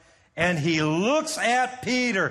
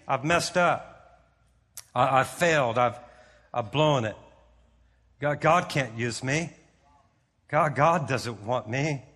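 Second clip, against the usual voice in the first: low, halting, mildly dejected; defeated confession; 5 semitones lower than usual. Retold or imitated. Preacher voices the disciple feeling he failed God, mildly defeated. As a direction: confess failure in broken-up, lowered phrases. Peter despairing after his failure.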